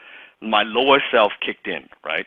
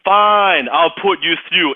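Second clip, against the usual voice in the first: grudging give-in; 7 semitones higher, 5 dB louder, slower than usual. Retold or imitated. Assistant giving in.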